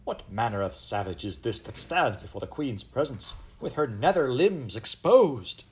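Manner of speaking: imperious queen, outraged; crying queen. A narrator's reading. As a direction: build to a high, loud, drawn-out royal outcry. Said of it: "cried good Queen Bess".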